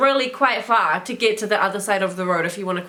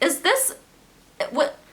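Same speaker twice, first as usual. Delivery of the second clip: baffled; 5 semitones higher than usual. Real, not acted. Baffled by upside-down pizza.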